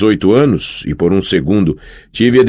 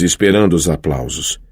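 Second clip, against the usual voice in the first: ordinary delivery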